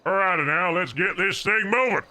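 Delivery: trucker voice. Pretend. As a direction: rev up like a trucker starting the haul. Voiced trucker ready to drive.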